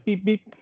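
high little electronic beeps; imitated beeping. Demonstrating the beeping noise heard on the call, high beeps. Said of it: "It was beeping noise".

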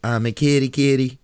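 high loud cutesy kitty voice; cat emote voice. Retold or imitated. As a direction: squeal it like a cartoon cat. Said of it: "its emote goes".

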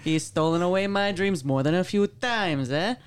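hammed-up Missouri accent; missouri twang. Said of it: "You gotta use a Missouri accent".

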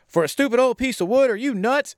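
hammed-up incredulous annoyance; mock aggressive. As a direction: act out his scornful outburst. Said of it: "then he starts being aggressive".

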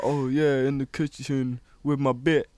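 imitating a comedy sketch character, lively; goofy sketch-show bit voice; playful parody of a Key and Peele skit; mock sketch voice. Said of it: "I could hear 'em doing that".

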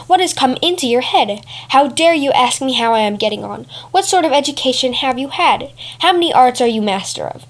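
a hint of a proud fox insulting a cat; proud scornful fox. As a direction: look down on the cat and mock her. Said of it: "The fox, full of pride".

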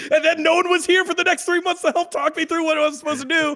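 high, loud exasperated telling; loud venting rant. Real, not acted. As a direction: vent it loudly, half laughing. Venting career story, raised voice.

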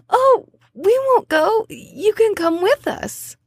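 teary high plea. Acted. Bunny girl tearfully promising the lonely spirit, high plea. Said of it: "I start crying too".

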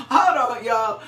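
can't stop laughing. Real, not acted. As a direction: hold on, laughing helplessly. Preacher laughing in the Spirit.

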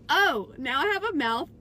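high, loud laughing complaint; loud comic wail. Retold or imitated. Retold toothpaste mishap, shouting.

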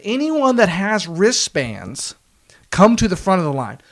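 slow, drawn-out mock announcement; imitated announcement. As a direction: lightly imitate someone addressing a waiting line. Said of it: "they make an announcement".

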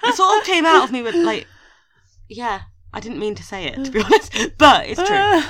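laughing it off, embarrassed by her own joke. Real, not acted. Host laughing at her radio pun, giggling through it.

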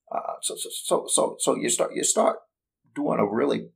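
put-on halting stutter like old Hollywood; Jimmy Stewart impression. Shown as a demonstration. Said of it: "a really lousy Jimmy Stewart impersonation".

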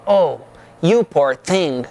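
slow, low and sincere, not ironic; mean it, comfort a tired friend; sincere sympathy. Shown as a demonstration. To a friend who says she is exhausted, sincerely sympathetic. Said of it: "mas no sentido não irônico".

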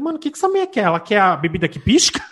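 acting out total confusion; baffled mock question. Retold confused thought, high. (pergunta confusa, aguda)

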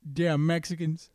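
mock country accent; lightly put-on country twang. Shown as a demonstration. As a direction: try a country accent for a joke. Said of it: "Do a country accent".

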